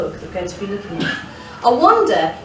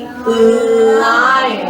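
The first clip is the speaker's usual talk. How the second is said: loud; 6 dB louder than usual. Acted. Announcing the lion loudly.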